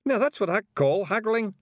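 high, loud little Scottish pictsie; a tiny rough Feegle, pleased with himself. Acted.

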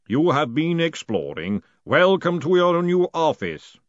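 slow, booming voice; booming golem voice. A narrator's reading. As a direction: boom out the welcome slowly. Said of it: "boomed the voice of Mister Pump".

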